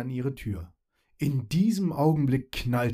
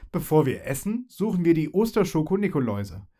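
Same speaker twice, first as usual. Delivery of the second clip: bright, cheering call, a little higher; 4 semitones higher, 3 dB louder than usual. Acted. Fairy announces the Easter chocolate hunt, cheering. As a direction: whoop it out with glee. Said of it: "juchzte sie".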